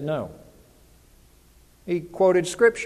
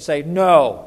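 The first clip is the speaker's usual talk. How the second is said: firm, louder "no"; like you mean it; 2 semitones lower, 6 dB louder than usual. Shown as a demonstration. Preacher urging the congregation to respond, like you mean it. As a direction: say it with conviction. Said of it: "Now say it like you mean it".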